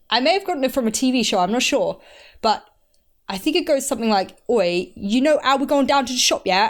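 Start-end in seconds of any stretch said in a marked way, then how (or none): 4.5-6.7 put-on a rough British accent, rushed faster; breezy London accent, words tumbling out fast. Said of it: "I know how to do one".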